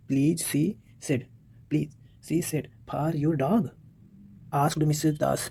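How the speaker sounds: slow, word-by-word story reading; textbook read-aloud. Real, not acted. Teacher reading the story to pupils, slow and measured. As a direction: read it out slowly for learners.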